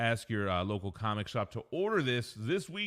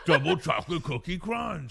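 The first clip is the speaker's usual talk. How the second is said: giggling through the words; laughing while talking; 7 semitones higher, 7 dB louder than usual. Real, not acted. Laughing over a cookie name.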